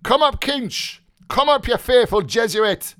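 high, loud shout down a stairwell; coarse call. Acted. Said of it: "called out coarsely".

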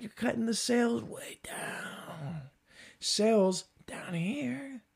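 soft, breathy, drawn-out whisper; exasperated whisper. Acted. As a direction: whisper it slowly in disbelief. Exasperated rant, voice thinned out.

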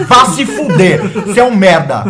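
loud, hammed-up cursing tirade; mock furious rant. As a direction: tell the cheater off at full volume, half joking. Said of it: "Hoje é noite do barraco mesmo". (bronca furiosa exagerada, bem alta)

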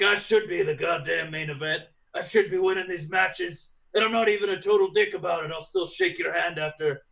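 grit out the demand to be champion; frustrated champion. Retold or imitated. Wrestler insisting it's his time, mildly gruff and determined. Voicing Drew wanting the title.

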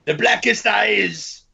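dramatic movie quote. Pretend. Quoting movie line dramatically.

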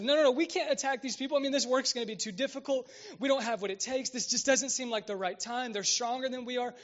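a hint of frightened spies pleading; panicked refusal. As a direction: talk them out of it in a panic. The men's frightened objection acted.

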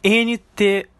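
very slow, letter by letter; spelling out. Shown as a demonstration. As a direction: spell it out with a gap between letters. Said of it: "como é que se escreve". (soletrando bem devagar, letra por letra)

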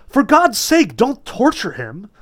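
pleading cry. A narrator's reading. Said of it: "A woman's voice ... rose above the clamor".

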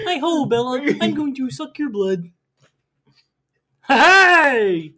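high-pitched cheery puppet voice; Muppet voice. Acted. Edward greets Bella as a Muppet, high puppet voice. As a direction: play a chirpy puppet vampire. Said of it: "had, like, a Muppet voice".

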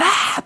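high-pitched imitated shriek; imitated scream. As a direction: squeal like the screaming teacher. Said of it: "se ponía a gritar como loca".

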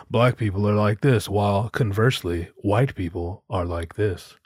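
imitating a smug comedian lecturing; mock Paul Mooney. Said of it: "It's all very typical".

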